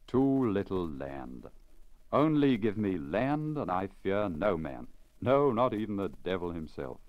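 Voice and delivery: a peasant's stubborn brag, pushed harder on the land; Pachom's boast. Acted. Pachom bragging by the stove.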